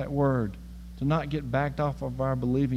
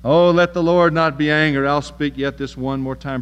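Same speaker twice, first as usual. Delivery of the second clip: Abraham pleading; 10 dB louder than usual. Retold or imitated. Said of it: "And he said".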